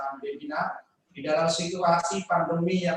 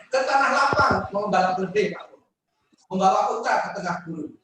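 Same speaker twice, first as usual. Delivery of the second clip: reciting a pantun; 5 dB louder than usual. Acted. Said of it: "Boleh izinkan saya pakai pantun".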